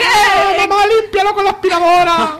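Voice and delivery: put-on high-pitched kid yelling for mom; childish shout. Playing a Teletubby, calling for mom to clean up. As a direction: squeal it like a toddler calling mom.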